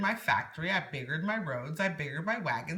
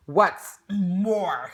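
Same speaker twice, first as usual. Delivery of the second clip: whispered snap; 3 semitones higher, 7 dB louder than usual. A narrator's reading. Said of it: "snapped the Lorax".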